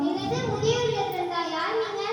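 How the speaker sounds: taken aback and demanding; shocked disbelief. Acted. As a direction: react in alarm to bad news. Daughter hears shocking news by phone.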